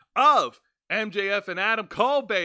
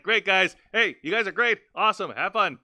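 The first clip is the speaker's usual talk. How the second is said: mock happy boss; 3 dB louder than usual. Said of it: "his normal happy Tony Connerism".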